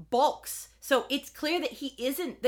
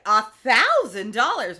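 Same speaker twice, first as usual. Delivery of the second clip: surprised; 9 dB louder, slower than usual. Retold or imitated. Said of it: "Barbara's like".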